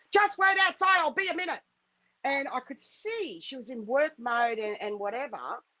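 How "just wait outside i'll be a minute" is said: acted-out, loud, barked drill-style military yell. Recounting a woman who slammed the car door, retelling a military-voice yell. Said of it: "yelled in a military voice".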